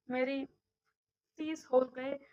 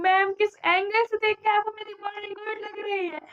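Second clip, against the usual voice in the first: sarcastic retort; 7 semitones higher, 9 dB louder than usual. Retold or imitated. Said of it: "मैं कह रही हूँ".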